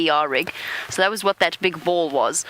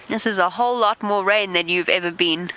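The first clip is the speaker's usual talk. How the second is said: ordinary talk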